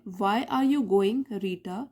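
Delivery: 'Why are you going' run together, then Rita; one unbroken question. Shown as a demonstration. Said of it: "तो यहाँ पे लिखा गया है". ('Why are you going, Rita' एक ही सवाल की तरह)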